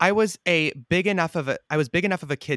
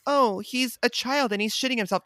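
mock dismissive quote; 8 semitones higher than usual. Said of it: "it's not like".

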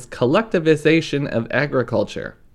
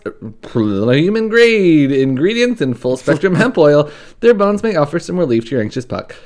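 upbeat sponsor read, lightly pushed; 4 dB louder than usual. Acted. Host reading a sponsor spot to listeners, cheerful ad read. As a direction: sell the dog treats like a podcast host.

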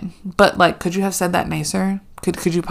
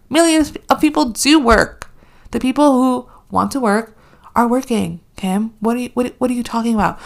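indignant rant; 5 semitones higher than usual. Real, not acted. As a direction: fire each question at her. Ranting list at Kim.

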